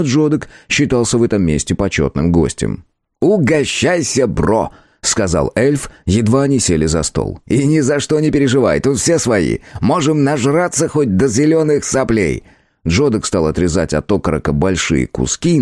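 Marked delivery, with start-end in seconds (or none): 3.2-4.7 lightly raised, cheeky elf voice; christmas elf. A narrator's reading. Elf character voice. 7.5-12.4 lightly raised, cheeky elf voice; christmas elf. A narrator's reading. Elf character voice.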